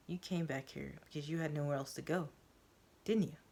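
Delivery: quiet, calm question. Acted. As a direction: ask gently to take the heat out. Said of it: "I calmly ask".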